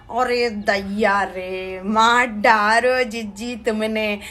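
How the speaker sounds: drawn-out, slow theatrical gasp of dismay; mock dismay. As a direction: play it as mock horror, stretched out slowly. Reacting to a hateful comment.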